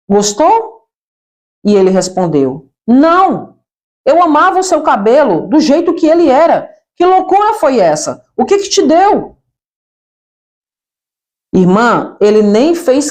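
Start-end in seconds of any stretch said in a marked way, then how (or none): 0.1-0.9 eager, bright little question; all excited. Retold or imitated. Girl asks her boyfriend about her new hair, excited. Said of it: "perguntei toda empolgada". 2.9-9.4 put-on dismayed boyfriend, pitched higher; upset boyfriend. Boyfriend tells her he loved her old hair, dismayed.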